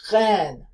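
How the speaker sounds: "reine" with a French throaty R. Shown as a demonstration. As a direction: start "reine" with a rasped throat R. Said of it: "Or reine".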